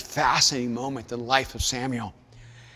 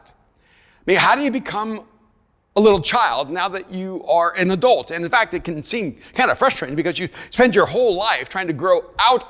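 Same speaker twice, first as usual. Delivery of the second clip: raised, higher sermon voice; impassioned preaching; 5 semitones higher, 6 dB louder than usual. Real, not acted. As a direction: press the point home to the congregation.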